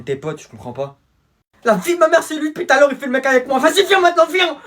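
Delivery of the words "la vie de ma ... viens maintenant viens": high, loud aggressive taunt; teen squaring up to a rival; fight challenge. Acted. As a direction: square up and dare him to come.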